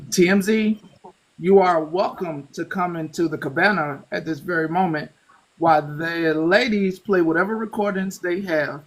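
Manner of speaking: measured, formal announcement; formal invitation. Pretend. Host formally inviting TMZ into the cabana, formal invitation. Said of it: "let me do my formal invite".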